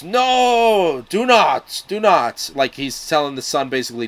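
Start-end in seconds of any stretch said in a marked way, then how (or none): 0.0-2.5 high, loud cry of warning, retold; retold scream. Old man warning the son from far away, loud cry. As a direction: call out to stop him from afar. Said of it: "he screams".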